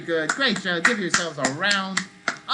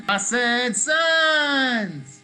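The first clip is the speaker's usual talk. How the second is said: higher, louder and slow, stretching sons wide; big sunny shout; 4 semitones higher, 3 dB louder, much slower than usual. Shown as a demonstration. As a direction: call it out bright and big to the kids. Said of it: "shout out sons".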